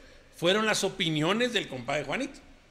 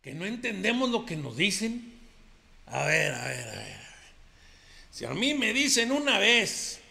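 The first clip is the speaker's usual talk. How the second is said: ranchero macho compadre; 3 semitones higher than usual. Acted. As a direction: play the swaggering macho who denies everything. Macho compadre character monologue. (compadre ranchero presumido y bravucón)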